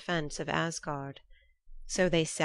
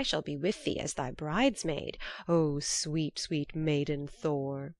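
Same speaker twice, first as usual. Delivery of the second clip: mock sweet teasing. Loki teasing Thor as bride.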